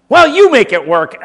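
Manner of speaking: high, loud, breezy teacher; cheerful shrug. Retold or imitated. Teacher shrugging off a failed experiment, loud and breezy. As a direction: brush off the failure brightly.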